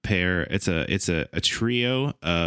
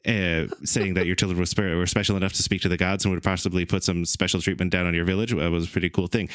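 faster. Shown as a demonstration. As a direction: hurry it along, fast.

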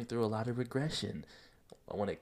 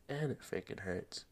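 quiet; 5 dB quieter than usual. Real, not acted. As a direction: drop and it freaking hurts to a hush. Repeats line softer.

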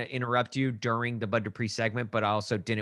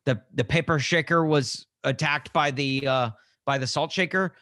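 joke told loudly; 3 semitones higher, 4 dB louder than usual. Real, not acted. To co-host, telling the salt shaker joke loudly. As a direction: sell the pun, voice up and out. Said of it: "Have you ever heard the joke?".

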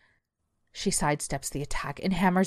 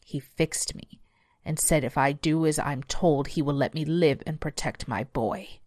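hushed beast. Acted.

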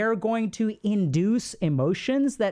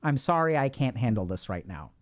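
playing weak; 3 semitones lower than usual. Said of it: "Be weak".

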